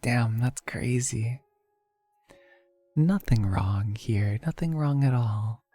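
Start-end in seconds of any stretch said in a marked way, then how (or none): 2.9-5.6 whispered fake innocence; mock innocent. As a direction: play it like nothing's wrong. Jokingly denying glitchy avatar.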